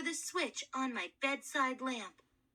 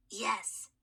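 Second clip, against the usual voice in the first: hoarse mummy voice; 4 semitones lower than usual. Acted. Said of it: "a very hoarse voice".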